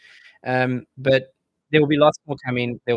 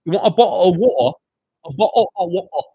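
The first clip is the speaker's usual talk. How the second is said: mock American accent; 8 semitones higher, 9 dB louder than usual. Mocking American speech with exaggerated vowels. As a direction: poke fun at how Americans say "water". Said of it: "I was poking fun of the bottle of water".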